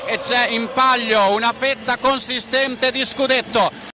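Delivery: warm, formal radio welcome; radio sports announcer. Acted. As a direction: greet listeners like a stadium announcer. Radio commentator opening broadcast. (annunciatore radiofonico)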